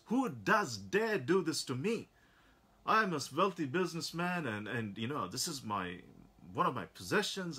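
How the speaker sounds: a touch of fuming rich man. Acted. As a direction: demand it like an outraged rich man. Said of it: "he was absolutely fuming".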